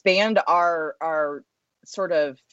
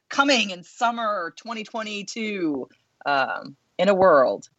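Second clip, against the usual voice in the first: movie trailer voice; 3 semitones higher than usual. Acted. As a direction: say it like an epic film trailer. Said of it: "you could do the movie, uh, the movie trailer, uh, voice on that one".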